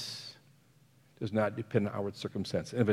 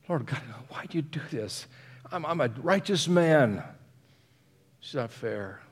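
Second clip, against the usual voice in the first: a touch of pleading complaint; Job's mild anguished plea; 4 semitones higher, 3 dB louder than usual. Acted. Preacher voicing Job crying out to God. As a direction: plead your case to God.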